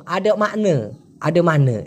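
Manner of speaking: "আডে মানে" with both endings reduced to a schwa; colloquial pronunciation. Shown as a demonstration. Teacher showing what the word turns into, colloquial pronunciation. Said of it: "এরকমটা হয়ে যায়".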